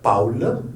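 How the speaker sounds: "Paul" as POWL with final L; German AU. Shown as a demonstration. Teacher giving the name in German, AU diphthong. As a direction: glide A into OU in "Paul". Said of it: "il manque ici le L".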